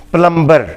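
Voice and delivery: پلمبر with the b sounded; the common mistake, پلمبر with a b; wrong pronunciation. Shown as a demonstration. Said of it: "یہ لفظ پلمبر نہیں ہے".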